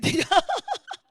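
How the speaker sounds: loud, high laugh; burst of laughter. Real, not acted. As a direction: crack up at your own story. 자기 이야기에 웃음이 터짐. (크게 터지는 웃음)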